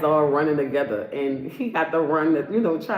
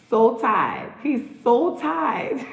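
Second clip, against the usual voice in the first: mock pity; 5 semitones higher, much slower than usual. Mocking a tired face on screen.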